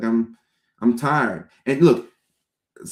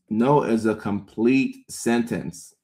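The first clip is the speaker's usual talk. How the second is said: No is a complete sentence said slowly, each word weighed; slow, deliberate; slower than usual. Shown as a demonstration. Restating the rule to the viewer, slow and deliberate.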